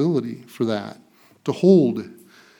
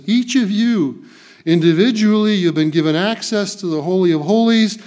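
preaching. Acted. Pastor urging the congregation in Paul's words, raised and fervent. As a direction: press it home to the flock.

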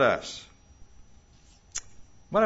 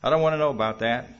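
casual dismissal; 2 semitones higher than usual. Acted. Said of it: "Or we just casually say".

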